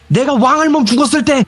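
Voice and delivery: put-on high, wailing old woman voice; grieving grandma. Grandma breaking into grief over the late elder, imitated. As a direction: cry out like a bereaved grandma.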